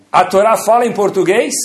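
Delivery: mock incredulous question. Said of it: "Fala sim".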